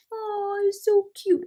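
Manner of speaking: high, squealing oh so cute; cooing over a cute Valentine sentiment; gushing delight. Real, not acted. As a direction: swoon over how adorable it is.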